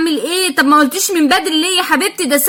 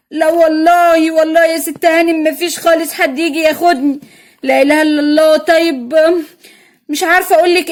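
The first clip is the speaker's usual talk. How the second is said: put-on pitiful old vendor woman; 2 semitones lower than usual. Old vendor pleading with the mother to buy her paints, lightly lowered pitiful voice.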